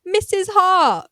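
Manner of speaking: high loud slow exclaim; jaw-dropped cry; shocked realisation. Real, not acted. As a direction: gasp out the name in shock.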